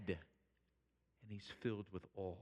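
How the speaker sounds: slow, soft and low; quiet, slowed wonder; hushed awe. Acted. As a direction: drop right down into reverent quiet. Drops to hush after outcry.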